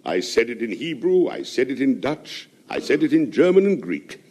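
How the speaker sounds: reading Lewis Carroll's rhyme aloud; poem recital. Acted. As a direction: recite it as light verse.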